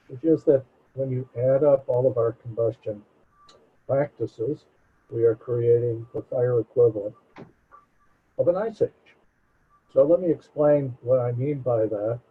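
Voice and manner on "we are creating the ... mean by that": muddy, boomy muffled mic; like talking through a bad microphone. Real, not acted. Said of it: "your audio sounds muffled".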